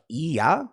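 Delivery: "Yeah" as a questioning "ee-ah", rising; exaggerated Chicago vowel. People mocking his accent, "Yeah" as questioning "ee-ah". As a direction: echo a stretched Chicago "Yeah", like "ee-ah". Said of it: "doing a little bit harsher".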